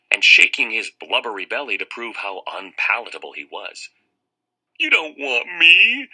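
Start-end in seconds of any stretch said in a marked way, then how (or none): 4.8-6.1 high, loud, slow sobbing; sobbing plea. Acted. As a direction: blubber it through tears. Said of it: "he sobbed".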